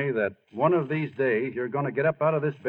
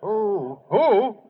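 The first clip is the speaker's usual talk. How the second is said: excited; 7 semitones higher, 4 dB louder than usual. Acted. Lou elated over telegram.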